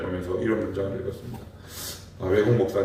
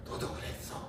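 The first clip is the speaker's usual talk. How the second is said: whispered reply; 16 dB quieter than usual. Retold or imitated. God's imagined reply.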